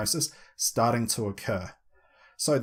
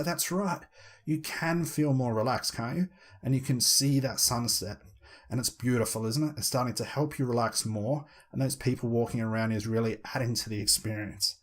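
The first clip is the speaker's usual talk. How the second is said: hypnotic voice. Shown as a demonstration. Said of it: "repeat it back in this hypnotic tone".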